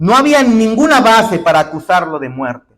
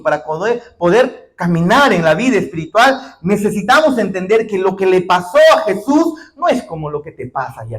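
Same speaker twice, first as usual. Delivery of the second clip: ordinary delivery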